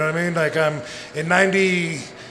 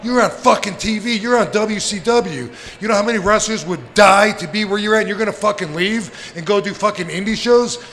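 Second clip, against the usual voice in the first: intense; 5 semitones higher, 3 dB louder than usual. Retold or imitated. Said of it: "he got, like, intense".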